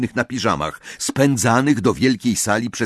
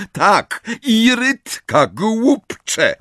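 much higher, loud yelled orders; furious shouting; 12 semitones higher, 5 dB louder than usual. Acted. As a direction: bellow at him. McGonagall shouting orders at Filch.

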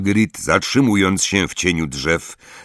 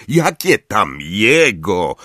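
contemptuous; 3 semitones higher, 3 dB louder, slower than usual. Acted. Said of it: "z pogardą Zakała".

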